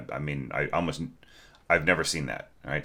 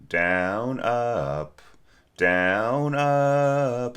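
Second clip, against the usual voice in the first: Down, up, down, up, each word lifting higher; bowing pattern; 6 semitones higher, much slower than usual. Shown as a demonstration. Teacher calling bow directions to student, rising. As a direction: call out the bows rising in pitch. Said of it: "shows bowing pattern".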